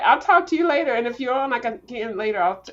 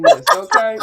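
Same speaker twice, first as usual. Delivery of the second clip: high, sassy "okay?" with a falling end; 13 semitones higher, 11 dB louder than usual. Pretend. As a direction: snap it out with attitude. Sassy brag about being kicked.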